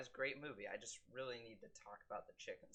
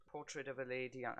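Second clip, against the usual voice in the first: a halting, half-hearted stab at a French accent on Portrait of a Lady on; failed French accent. Shown as a demonstration. Reviewer attempts the film title in a French accent, then gives up. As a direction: try the title in a French accent and give up midway. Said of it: "I can't do a French accent".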